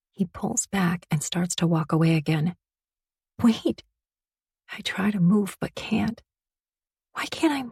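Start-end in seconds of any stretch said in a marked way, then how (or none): 3.4-3.8 sudden higher call of wait. A narrator's reading. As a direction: call him back, rising. Daughter calls father back.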